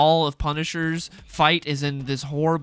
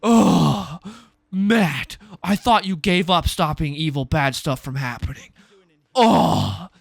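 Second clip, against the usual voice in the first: sneering put-on voice with louder "Oh"s; mock the smug cop; imitating an annoying cop, scornfully; mocking Cherry; 4 dB louder, slower than usual. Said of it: "Cherry's like".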